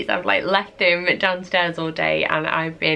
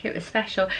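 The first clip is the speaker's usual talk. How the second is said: wistful sigh; 4 dB quieter, faster than usual. Retold or imitated. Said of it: "just be like".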